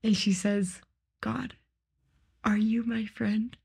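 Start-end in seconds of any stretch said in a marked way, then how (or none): 1.2-3.6 hushed, slow imitation of a sobbing plea; near-whisper, quoting a tearful prayer; retold tearful prayer. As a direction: softly voice someone praying through tears, understated. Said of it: "she's, like, sobbing".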